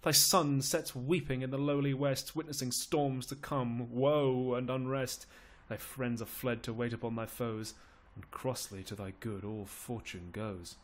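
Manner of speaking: declaimed sorrow, subsiding at the end; lamenting Lord Salisbury. Acted. Salisbury foresees Richard's fall, lamenting.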